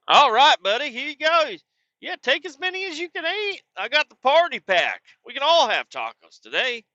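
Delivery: high, sing-song voice for the pet; baby talk to the dog. Acted. Owner cooing at happy Kyle over tacos, high sing-song baby talk. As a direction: coo it up high like to a puppy.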